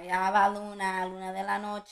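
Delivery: loud pet call, easing off; calling the dog. Retold or imitated. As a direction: call the dog by its Spanish nickname. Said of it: "That was the way I used to tell her".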